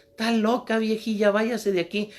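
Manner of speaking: high, scornful brush-off; rude young man. Acted. Young man to old woman, high and scornful. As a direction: shoo the old lady away.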